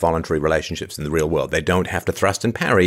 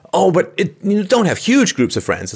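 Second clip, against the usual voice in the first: mocking fussy mom; 12 semitones higher, 3 dB louder than usual. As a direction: ham up a fretting mom. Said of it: "it's the moms who care more".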